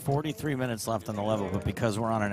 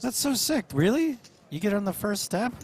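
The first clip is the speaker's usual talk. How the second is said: excited; 12 semitones higher, 3 dB louder than usual. Real, not acted. Reacting to promo offer.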